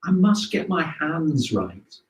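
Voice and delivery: soft, slow and rueful; rueful sigh. Retold or imitated. Mother looking at her worn palms, softly rueful. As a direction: murmur it with mild regret at her hands. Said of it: "say ruefully".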